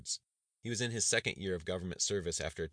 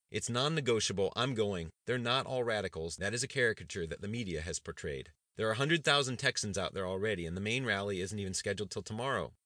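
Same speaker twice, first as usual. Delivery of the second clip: louder, higher commanding insistence; non-negotiable; 4 semitones higher, 5 dB louder than usual. Acted. Governor overrules his cabinet, loud and commanding. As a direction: lay down the law.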